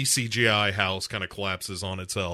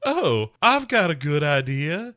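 mock sly idea; 4 semitones higher than usual. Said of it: "Heather Graham is just like".

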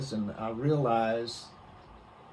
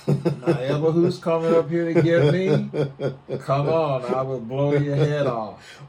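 retold threat; 4 semitones higher, 10 dB louder than usual. Father threatens the armed mob.

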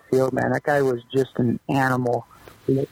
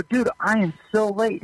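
higher, hurried retold panic; panicked rookie; 6 semitones higher than usual. Rookie panicking to the clubhouse manager, higher animated voice. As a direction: play your younger self in a rush, voice pitched up. Retold locker room exchange.

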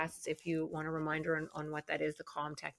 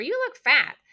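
put-on much higher and louder, a child's blunt chirp; mock toddler voice; 12 semitones higher, 11 dB louder than usual. Toddler teasing a parent, high mock child voice. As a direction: play a cheeky toddler blurting it out. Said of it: "a two-year-old came up to you and said".

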